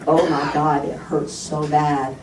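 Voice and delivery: low, weary complaint; pained moan. Retold or imitated. Patient in the chair admitting pain, low moan. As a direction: let it sink low, slowing on the last words.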